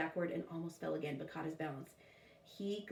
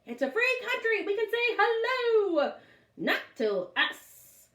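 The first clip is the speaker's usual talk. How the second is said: put-on much higher, louder whiny girl voice; defiant girl; 14 semitones higher, 6 dB louder, slower than usual. A narrator's reading. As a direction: argue back like an indignant girl. Girls arguing back.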